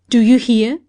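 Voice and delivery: furious shout. Acted. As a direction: shake the answer out of her. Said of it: "shook her furiously".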